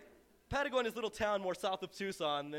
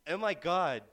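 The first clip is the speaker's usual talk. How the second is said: mock astonishment; 4 semitones lower, 4 dB louder than usual. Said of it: "when you look at me and you say".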